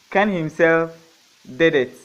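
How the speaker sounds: teacher demoing the emphatic "Ken himself"; emphasis on himself. Shown as a demonstration. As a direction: stress on "Ken himself", each word given weight. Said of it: "The same emphasis".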